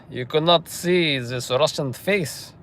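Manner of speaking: slow, deliberate mock Russian accent; joking Russian accent, each word stretched. Streamer joking about his Russian face, mock Russian accent.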